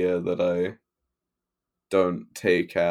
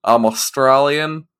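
loud, exaggerated schoolgirl Aussie accent; Australian accent imitation; 3 semitones higher, 6 dB louder than usual. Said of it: "I can do a flawless imitation of her, uh, Australian accent".

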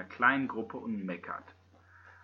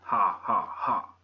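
fake laugh; 5 semitones lower, slower than usual. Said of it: "so intelligente Sprüche drauf wie".

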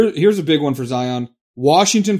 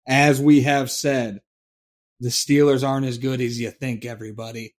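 boomer voice; 3 semitones lower than usual. Acted. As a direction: lecture like a grumbling boomer. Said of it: "That's my boomer voice".

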